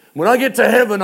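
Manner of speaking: preacher's rising emphasis on heaven. Real, not acted. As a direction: punch the repeat of When I get to heaven. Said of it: "repeated with force".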